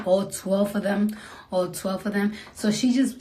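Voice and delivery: ordinary talk, nothing marked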